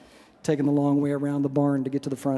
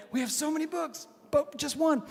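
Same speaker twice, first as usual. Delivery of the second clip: high, light comic rabbi voice; Stuart Federow; 11 semitones higher, 5 dB quieter than usual. Retold or imitated. Rabbi marvelling at being asked about all Judaism, high impression. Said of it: "do my Stuart Federow impression".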